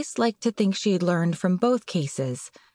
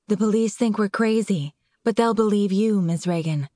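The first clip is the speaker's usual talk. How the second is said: breathy voice. Acted. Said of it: "she said in a breathy voice".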